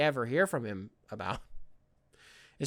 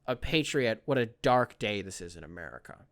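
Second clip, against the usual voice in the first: 1 mock solemn eulogy; 5 semitones lower than usual. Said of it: "being like".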